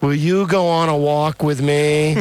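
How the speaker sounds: slow, lightly mimicked wifely plea. Host imitating his wife's daily walk request, pleading. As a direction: draw it out like a nagging mantra. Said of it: "That's my wife".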